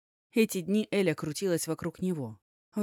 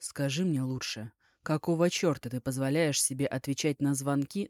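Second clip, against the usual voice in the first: restrained anger; 2 semitones lower than usual. Acted. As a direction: keep the fury under control. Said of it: "сдерживаясь от желания наорать".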